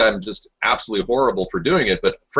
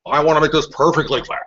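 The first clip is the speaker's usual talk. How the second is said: a hint of Nixon's formal delivery; Richard Nixon; 2 semitones higher than usual. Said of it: "Slight difference".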